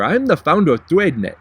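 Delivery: put-on French accent with a swooping tune; hammed-up French accent, as if introducing himself; mock French accent. Vlogger parodying the founder's introduction, mock French accent. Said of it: "making fun of your French accent".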